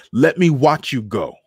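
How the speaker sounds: high, loud taunting order; shouted. A narrator's reading. Soldier driving the two women away, loud shout. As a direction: shout it after them as they leave. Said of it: "Toto shouted".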